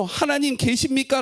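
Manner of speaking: high, loud plea to God; anguished cry. Acted. Prophet calling to God over his people's evil, loud and high. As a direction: call out to an absent God. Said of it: "이스라엘 백성의 그 악을 보면서".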